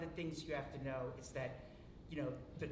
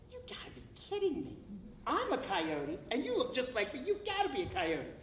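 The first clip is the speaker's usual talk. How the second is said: disbelieving; 7 semitones higher than usual. Acted. First coyote disbelieving.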